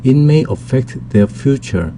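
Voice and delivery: slow, clear English model sentence; slow clear classroom English; slow teaching read. Shown as a demonstration. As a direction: read it out slowly for learners.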